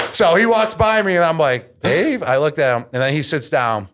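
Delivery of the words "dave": high questioning call of the name Dave; a hint of a call across the airport. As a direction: catch his attention with a surprised Dave?. Calling out to Portnoy.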